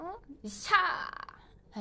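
guts pose cheer. Acted.

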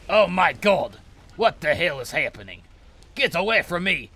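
loud high panicky yelling; panicked. Real, not acted. Player fleeing a charging enemy, loud panicked yelling.

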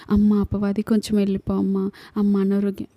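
mildly acted polite begging; mock pleading. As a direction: plead meekly, as a light imitation. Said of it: "అని బ్రతిమలాడితే". (బ్రతిమలాడుతున్నట్టు నటిస్తూ)

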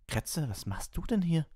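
put-on high, stunned boy's voice; aghast boy. A narrator's reading. Ron sees his lost rat, aghast. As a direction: say it in utter disbelief.

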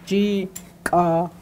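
Chikala drawn out slowly, each syllable apart. Shown as a demonstration. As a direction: break Chikala into slow syllables. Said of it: "the word breaks up into syllables".

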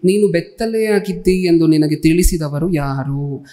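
slow, measured reading aloud; scripture reading. A narrator's reading. Preacher reads the verse to the congregation, slow scripture reading. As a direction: read the verse out slowly, with pauses.

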